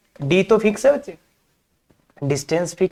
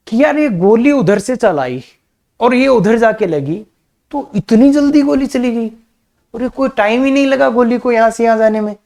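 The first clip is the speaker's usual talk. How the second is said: puzzled man; 5 semitones higher than usual. Retold or imitated. Voices the puzzled man's thoughts.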